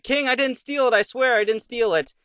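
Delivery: high-pitched pleading denial; scared kid. Acted. Kid protests to the king over the gold, scared. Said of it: "the kid's, like, all scared".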